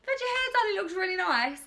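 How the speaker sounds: high, loud gushing fan voice; gushing compliment. Retold or imitated. Mimicking viewers who gush about her fresh hairdo. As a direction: squeal it like an excited admirer. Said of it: "Had you lovely people be like".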